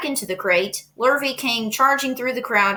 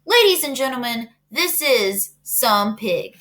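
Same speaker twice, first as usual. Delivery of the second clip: announcer; 4 semitones higher than usual. Acted. Fair announcer over loudspeaker.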